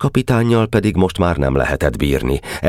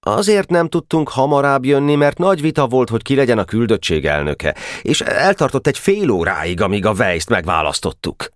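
put-on high, boyish, earnest explanation; explaining boy delegate; 9 semitones higher than usual. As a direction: explain the delay in a child's higher voice. (magas, magyarázkodó kisfiús hangon)

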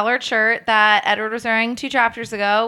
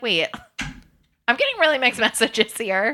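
laughing complaint; 3 semitones higher than usual. Pretend. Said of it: "I would be like".

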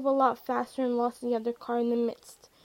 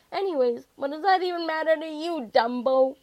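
higher, louder indignant retort; testy, raised-voice put-down; irritated insult; 4 semitones higher, 6 dB louder than usual. A narrator's reading. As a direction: throw the insult out crossly. Irritated insult in acted quarrel.

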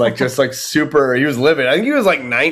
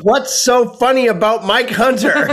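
baffled granny; 7 semitones higher, slower than usual. Retold or imitated. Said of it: "And then she goes".

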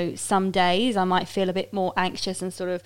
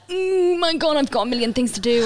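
much higher, fast, frazzled self-parody; mock frantic; 7 semitones higher than usual. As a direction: play your own overwhelmed rush. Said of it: "I'll be like".

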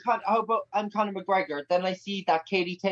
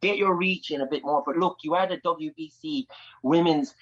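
Conor McGregor impression. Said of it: "Katie Taylor meets Conor McGregor".

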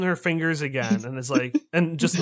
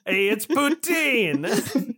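excited; 7 semitones higher, much slower than usual. Acted. Announces the summoned creature arriving.

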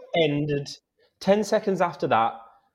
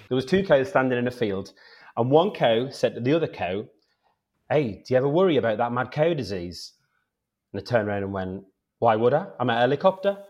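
Newcastle accent; 3 semitones lower than usual. Shown as a demonstration. Guest retells the mad cow joke for the hosts, Newcastle accent. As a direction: joke in a lightly played Geordie accent. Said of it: "do it in a Newcastle accent".

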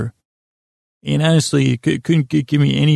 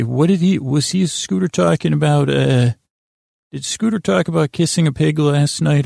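slightly higher, puzzled listener asking around; 3 semitones higher than usual. Pretend. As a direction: lightly voice a listener wondering what was said. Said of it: "and say".

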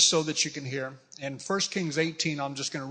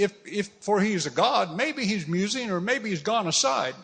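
higher-pitched teasing suggestion; mocking; 5 semitones higher than usual. Elijah taunting Baal's prophets about their god, mocking. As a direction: toss out excuses for their god. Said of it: "because Elijah mocks them".

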